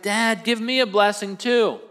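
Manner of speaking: mildly hammed-up whine of distress; tearful pleading. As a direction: act out a son begging his father. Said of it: "they're both crying".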